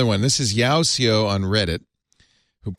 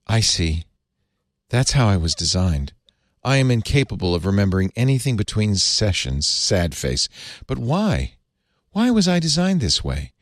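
mock depressed Bing. Bing realising it forgets everything, mildly sad. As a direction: read Bing's lines with a touch of gloom. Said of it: "in a depressive state".

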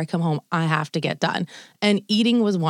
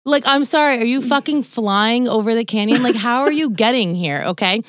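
exasperated rant; 4 semitones higher, 3 dB louder than usual. Real, not acted. Ranting about husband's late arrival.

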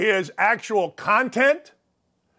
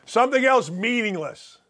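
usual speaking voice

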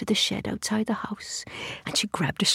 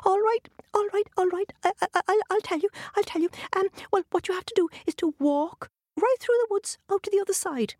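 leprechaun; 12 semitones higher than usual. A narrator's reading. Frightened leprechaun gives in.

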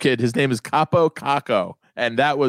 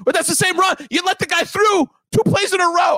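outraged dad. Retold or imitated. Son imitating his dad yelling at a football replay. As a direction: bellow at the replay like a fooled dad. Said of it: "And my dad go".

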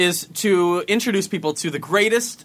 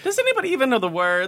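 Singer impression; 5 semitones higher, faster than usual. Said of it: "Mariah quote repeated".

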